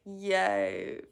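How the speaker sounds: slow, drawn-out mock enthusiasm; sarcastic cheer. Streamer imitating Travis's chat message, drawn-out sarcasm. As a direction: drag out the fake delight. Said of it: "I feel like that's sarcasm".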